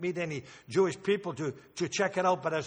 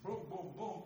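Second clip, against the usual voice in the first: soft mock drum booms; imitated drumbeat; 12 dB quieter than usual. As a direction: quietly mimic the drummer's beat. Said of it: "that fellow playing that thing there".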